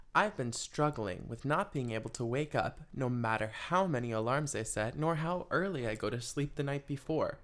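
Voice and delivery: a hint of letter-reading voice; lightly voiced reading of a letter; reading a letter aloud. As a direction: read the listener's letter out. Reads listener letter aloud.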